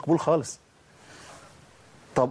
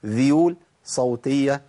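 quoting slowly; slower than usual. Retold or imitated. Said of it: "قال الشيخ جلال الحنفي".

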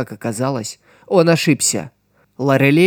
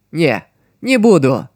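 predatory smile. Acted. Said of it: "хищно улыбнулась Сидзуку".

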